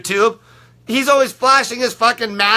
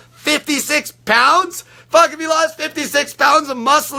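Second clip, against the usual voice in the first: incredulous; 4 semitones higher than usual. Real, not acted. Mocking doubters' disbelief.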